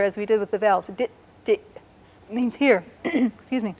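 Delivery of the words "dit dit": "Dit" with the T held longer. Shown as a demonstration. Teacher repeats "Dit" to show the long T. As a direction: linger on the T in "Dit". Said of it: "hold on to the T a little bit longer".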